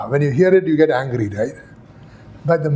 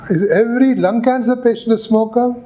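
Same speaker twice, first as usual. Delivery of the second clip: raised pitch, leading question; pointed question; 6 semitones higher than usual. Acted. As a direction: lead the witness to the answer. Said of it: "Fisher stood up".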